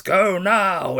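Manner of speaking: loud, high, hammed-up yell; imitated shout. Retelling Hannibal Lecter's order to Clarice, imitated shout. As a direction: shout it as a melodramatic film quote. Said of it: "he just shouts".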